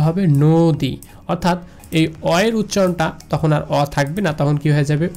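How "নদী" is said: নদী said "noo-dii", closed o in front; o-sound pronunciation. Shown as a demonstration. Teacher shows how it must be said, o-sound. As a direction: model নদী with a rounded first vowel. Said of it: "অবশ্যই আমাকে বলতে".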